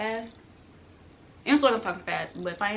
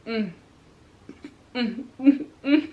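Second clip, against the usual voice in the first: imitated disapproving hum; 2 semitones higher, 6 dB louder, slower than usual. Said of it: "And he just like".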